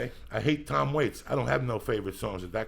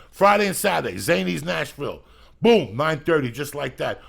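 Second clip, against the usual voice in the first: much louder and higher, barking the dates; hype shout; 6 semitones higher, 7 dB louder than usual. Acted. Comedian yells his show dates at fans, hammed-up hype. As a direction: sell the show like a carnival barker. Hyped-up promo of Zany's shows.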